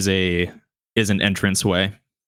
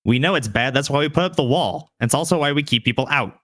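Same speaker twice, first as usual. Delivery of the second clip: higher-pitched, firm rebuff; unmoved guard; 6 semitones higher, faster than usual. Acted. Gate guard refuses old man entry, firm rebuff. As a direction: turn the stranger away firmly.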